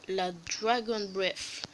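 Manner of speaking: "Dragon Breath" said slowly in a self-mocking English accent, "Dragon" with a hard n. YouTuber presenting a new potion, hamming up an English accent. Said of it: "Magnifique accent anglais".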